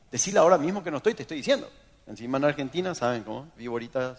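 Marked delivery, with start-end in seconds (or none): 0.1-1.7 orden rápida e insistente; jefe mandón imitado. Retold or imitated. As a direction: imita a un jefe que exige obediencia inmediata. Jefe insiste en que mienta. (orden apremiante, actuada)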